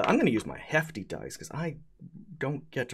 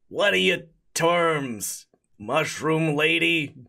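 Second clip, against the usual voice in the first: spaghetti golem voice; 4 semitones higher than usual. Acted.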